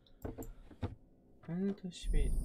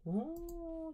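startled; 12 semitones higher, 4 dB quieter than usual. Real, not acted. Startled in horror game.

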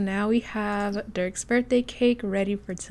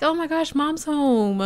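voicing the pet; 6 semitones higher, slower than usual. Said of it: "She's like".

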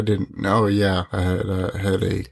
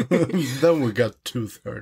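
laughing through the joke; 2 semitones higher than usual. Real, not acted. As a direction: giggle the punchline out. Punchline said laughing.

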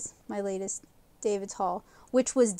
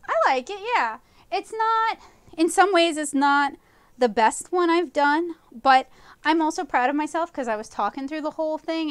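excited; 5 semitones higher, 4 dB louder than usual. Real, not acted. Proud of finished painting.

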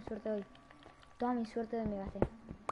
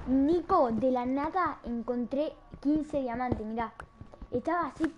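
excited shout; 2 semitones higher, 4 dB louder than usual. Real, not acted. Excitedly tells Nico about diamonds.

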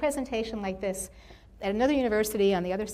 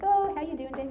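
higher, chirpy imitated greeting; mock friendly greeting; 7 semitones higher than usual. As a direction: act out welcoming a colleague, pitched up. Women greeting a nervous guest.

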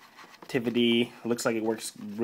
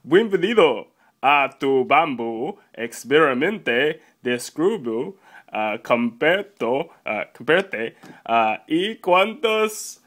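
halting put-on Spanish; faltering fake Spanish presenter; attempted Spanish; 2 semitones higher, 4 dB louder than usual. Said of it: "Is that Spanish?".

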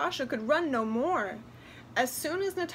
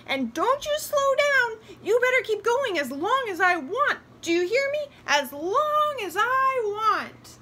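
high, loud, domineering doll voice; bossy doll; 11 semitones higher, 8 dB louder than usual. A narrator's reading. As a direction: lay down orders like a spoiled toy. Bossy doll orders the girl.

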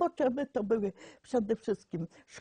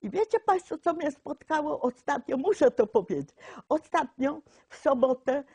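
excited; 4 semitones higher, 4 dB louder than usual. Real, not acted. Eager to tell the audience.

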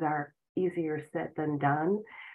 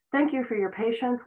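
cheerful new script; 6 semitones higher than usual. Shown as a demonstration. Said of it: "reprogram yourself with new scripts".

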